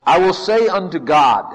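forceful Job quote; letting God have it. Acted. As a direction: proclaim it boldly as a challenge to God. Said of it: "he just let God have it".

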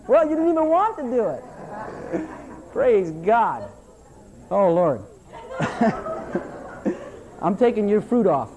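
chuckling through teasing lines; laughing. Real, not acted. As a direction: tease them while laughing. Preacher laughing at congregation.

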